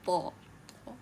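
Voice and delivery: "ta" with a heavy Arabic T; "ta" unlike the English T; emphatic T. Shown as a demonstration. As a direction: repeat "ta" apart, each T dark and emphatic. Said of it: "it's not like the T that we know".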